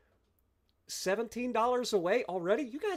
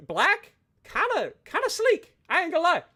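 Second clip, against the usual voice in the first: admiring; 10 semitones higher, 3 dB louder than usual. Real, not acted. Admiring the ship again.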